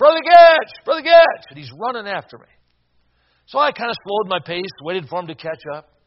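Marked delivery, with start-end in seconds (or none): 0.0-1.4 loud yelling pitched high. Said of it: "a guy starts yelling my name".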